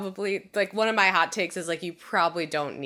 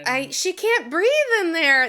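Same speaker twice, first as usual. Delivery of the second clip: distressed; 11 semitones higher, 4 dB louder than usual. Real, not acted. Upset watching a suffocation scene.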